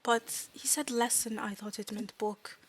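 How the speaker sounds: halting broken English, trailing off softly; fairy struggling with a second language; apologetic fairy student. Acted. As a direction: take the blame in careful, simple words.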